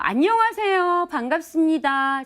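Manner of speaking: "안녕하세요" punched out high and loud, slow and square; blunt straight greeting. Shown as a demonstration. Speaker demonstrating a blunt greeting to viewers, straight and hard. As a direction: greet them flat-out direct, no curve. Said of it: "아주 직선적인 말인데요".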